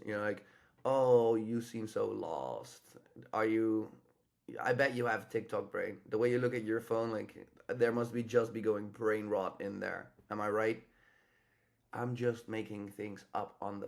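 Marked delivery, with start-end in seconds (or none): 0.9-3.9 teasing opener. Shown as a demonstration. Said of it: "If she is on her phone ... you're like". 4.6-6.0 put-on easy, familiar tease, like an old friend; confident teasing. Shown as a demonstration. Coach shows the right frame for opening a woman on her phone, familiar and teasing. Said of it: "That's not gonna work". 6.1-10.8 teasing opener. Shown as a demonstration. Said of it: "If she is on her phone ... you're like".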